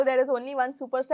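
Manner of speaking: slow, drawn-out star boast; mock grand boast. Mocking the actor's boast to the co-host, slow. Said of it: "आप अपने आप को बोलो".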